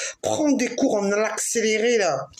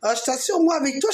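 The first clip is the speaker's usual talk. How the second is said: ordinary talk, nothing marked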